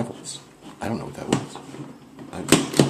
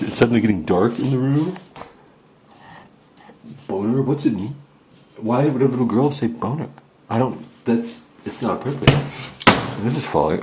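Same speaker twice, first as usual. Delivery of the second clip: hammed-up spooked indignation, louder and higher; half-joking outrage, a touch louder; mock alarm; 5 semitones higher, 4 dB louder than usual. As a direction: overplay the rattled ghost hunter. Mock-spooked at Ouija answer.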